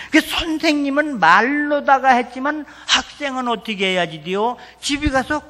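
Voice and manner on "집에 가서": hushed whisper driving the point home; confiding whisper to the congregation. Acted. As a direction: whisper it like a secret lesson. Preacher spells out the lesson.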